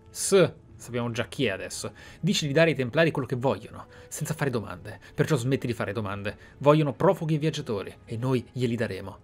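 ordinary talk, nothing marked

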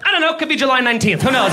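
hurried, rattled guessing; flustered, losing confidence. Retold or imitated. Rattled driver answering a cop, hurried and unsure. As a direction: blurt guesses like you've lost all confidence. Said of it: "you just lose all confidence in your answers".

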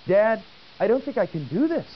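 imitating her fear, hammed-up a little; scared child.

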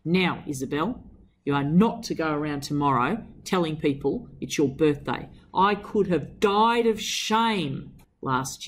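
a lightly voiced stern mother; a hint of a disapproving mother; stern mother's real voice. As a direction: read it as the strict mother telling her off. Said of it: "Actually, I'll do her real voice".

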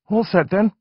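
a hint of a boy taking charge; decisive. Aaron deciding for his parents, decisively. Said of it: "said with a decisive air".

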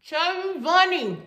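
slow, muffled by full cheeks; cheeks stuffed full. Real, not acted. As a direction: push it out past marshmallows. Sixth marshmallow in mouth.

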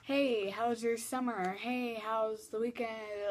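slow, easy friendly greeting; friendly opener demo. Shown as a demonstration. Demonstrating how she opens a chat, slow and friendly. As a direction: ask it casually and slowly. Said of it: "How do you start a conversation?".

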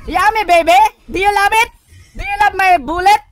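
mock taunt. Real, not acted. Taunting enemy after a kill.

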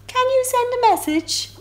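perky high octopus; clever octopus. Acted. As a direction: squeak it out like a clever little octopus. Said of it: "asked a clever octopus".

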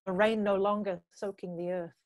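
spoken-word poetry with measured pauses; deliberate performance-poet delivery; poem recitation. Acted. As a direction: recite it as a poem, phrase by phrase, letting line endings fall away. Recites own poem on stage.

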